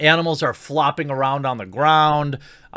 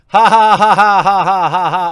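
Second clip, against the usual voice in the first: loud, high, fake cackle; mock her laughing at the dying squid; 5 semitones higher, 10 dB louder than usual. Mocking her laughter at the squid, loud, hammed-up cackle.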